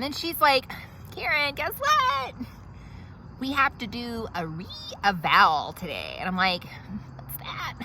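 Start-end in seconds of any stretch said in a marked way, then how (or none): 1.2-6.2 hygienist. Acted. Hygienist announcing re-evaluation. 7.2-7.7 whisper. Acted. Confused aside.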